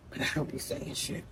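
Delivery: hushed confiding whisper; whispered aside. Real, not acted. She admits to the audience she keeps quiet, whispered. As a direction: drop to a secret whisper.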